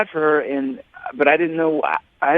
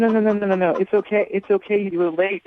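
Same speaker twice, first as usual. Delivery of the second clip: higher-pitched, hurried soothing; urgent reassurance; 7 semitones higher than usual. Real, not acted. Man telling his tearful date it's okay, urgently reassuring. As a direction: rush in to stop her blaming herself.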